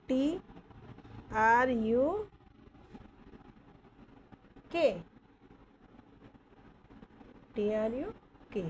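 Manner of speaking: ट्रक spelled letter by letter as T R यू के. Shown as a demonstration. Teacher spells the word for the class. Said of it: "इस ट्रक है".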